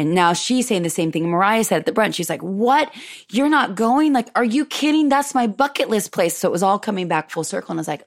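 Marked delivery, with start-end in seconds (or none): 2.4-6.4 higher mock mom in disbelief; imitating incredulous mom. Mom shocked her daughter isn't going, higher incredulous imitation. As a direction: play mom aghast.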